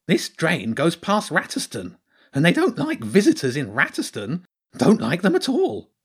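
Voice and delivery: high creature voice, spelling out doom; gloomy hedgehog character. Acted. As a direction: warn grimly in a high little voice.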